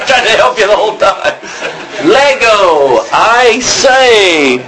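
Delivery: put-on posh British accent. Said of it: "It's British".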